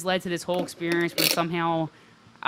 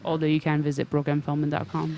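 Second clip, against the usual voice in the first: sexy microphone voice. Pretend. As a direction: lean in and purr like late-night radio. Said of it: "she just did the lean into the microphone thing".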